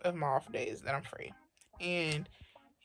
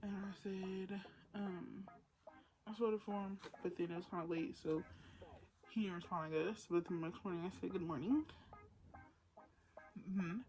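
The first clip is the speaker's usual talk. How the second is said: hushed late-night whisper; library whisper; 3 semitones higher, 14 dB quieter than usual. Real, not acted. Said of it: "I started whispering because people started going to bed".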